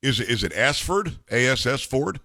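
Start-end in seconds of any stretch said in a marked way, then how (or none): 1.3-2.2 "A S S Ford" spelled letter by letter, teasing; spelling out Ass Ford. Real, not acted. Host teasing guest over the name, spelled letter by letter. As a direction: spell out "A S S Ford" to hint at a rude word.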